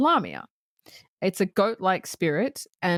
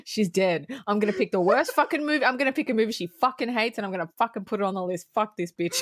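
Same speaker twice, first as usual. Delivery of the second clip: imitating vengeful friend; 2 semitones higher, faster than usual. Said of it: "I can imagine you going".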